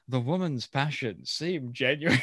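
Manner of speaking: lightly voiced Frasier, slow and grand; a hint of Frasier's pompous romantic tone; imitating Frasier. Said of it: "the way he says that".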